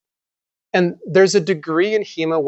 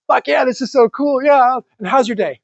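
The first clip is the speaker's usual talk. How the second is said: higher, gushing fan excitement; excited fan; 8 semitones higher than usual. Retold or imitated. Fencer gushing to the old master, excited. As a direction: gush like meeting your hero.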